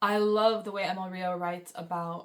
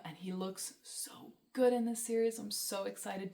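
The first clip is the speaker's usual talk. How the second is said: gushing whisper; 5 dB quieter than usual. Real, not acted. Gushing over a favourite character.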